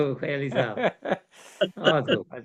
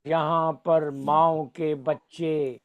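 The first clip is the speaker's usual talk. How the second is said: stately nazm recitation; slower than usual. Acted.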